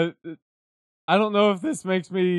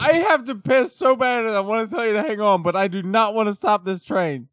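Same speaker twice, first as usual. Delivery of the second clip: excited; 6 semitones higher than usual. Real, not acted. Laughing through rant.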